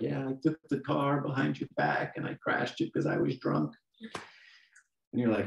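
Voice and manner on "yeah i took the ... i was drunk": imitating a teenager. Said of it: "They're teenagers, like".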